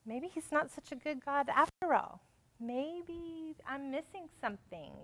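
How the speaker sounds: softly musing, slowing down; sowing doubt. Acted. Preacher voices Eve's growing doubt of God, softly doubtful. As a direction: wonder aloud, letting doubt creep in. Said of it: "he's sowing seeds of doubt".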